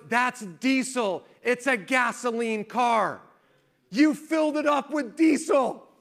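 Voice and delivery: hammed-up dad, disbelieving and loud; exasperated dad. Dad realizes son's mistake.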